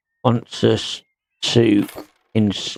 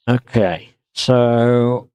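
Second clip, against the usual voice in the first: words stretched by a yawn; slower than usual. Real, not acted. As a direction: talk through a yawn. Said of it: "excuse me yawning".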